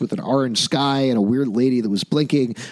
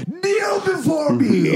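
high, slow booming villain command; ancient rasping undead king; 14 semitones higher, slower than usual. Pretend. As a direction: bellow it like a tyrant demanding worship.

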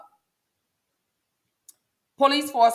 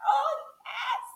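laughing; 4 dB quieter than usual. Real, not acted. Laughs about Sagittarius nephew.

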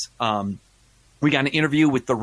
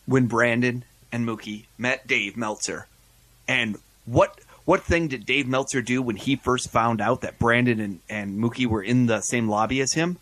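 slow teasing teaser voice; clickbait video narrator. Acted. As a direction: build suspense like a clickbait ad. Teasing premium episode.

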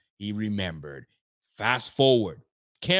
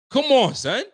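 exasperated outburst; 9 semitones higher, 8 dB louder than usual. Real, not acted.

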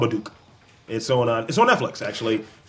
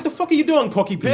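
mock outraged shout; 14 semitones higher than usual. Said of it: "It's like".

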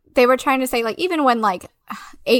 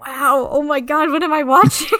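laughing disbelief; 4 semitones higher than usual. Retold or imitated. Her own stunned reaction, laughing.

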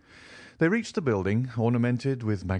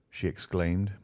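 ordinary delivery, nothing marked

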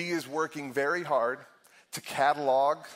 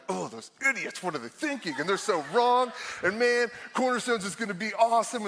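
mock scornful; 6 semitones higher than usual. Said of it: "Usually I'm like".

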